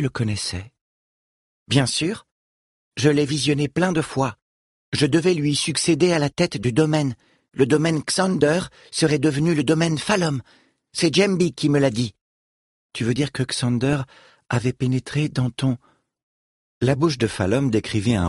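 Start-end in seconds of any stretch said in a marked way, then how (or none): 1.7-12.1 put-on higher, earnest young girl; a lightly voiced young girl. Falom speaks at length.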